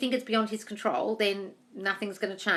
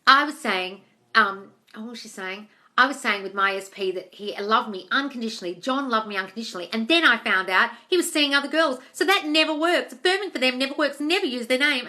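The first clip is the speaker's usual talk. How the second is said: raised, loud mocking voice; mimicking girl; 3 semitones higher, 5 dB louder than usual. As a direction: imitate her whiny defense, louder. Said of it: "she was like".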